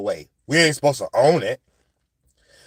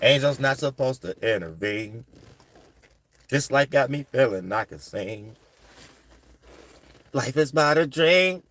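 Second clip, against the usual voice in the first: musing; 4 semitones lower, 6 dB quieter than usual. Real, not acted. Angel musing that life is a dream, low and soft. Drifts into a rhyming, poetic musing.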